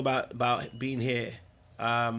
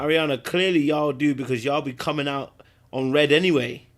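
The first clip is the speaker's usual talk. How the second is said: louder, teasing call-out to Ariana; calling out teasingly; 6 dB louder than usual. Real, not acted. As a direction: rib her loudly for it. Calling out a viewer.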